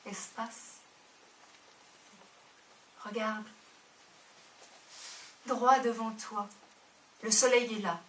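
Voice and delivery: wait for each line, yearning; poem recital. Acted. Reads a Prévert-style love poem.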